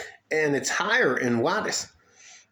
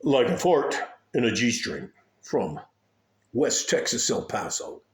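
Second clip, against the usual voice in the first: radio voice. Pretend. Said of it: "this is my radio voice".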